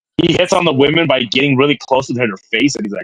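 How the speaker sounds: plain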